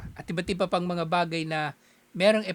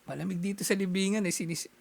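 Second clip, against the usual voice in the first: changed spirit voice. Pretend. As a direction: play the dead grandfather explaining his odd voice, half-joking. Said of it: "nagbago yung boses ko". (bahagyang ibang boses ng kaluluwa)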